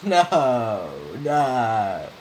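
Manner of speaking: loud repeated no; yelling in alarm; panicked shout. Real, not acted. Panics that the channel is ruined.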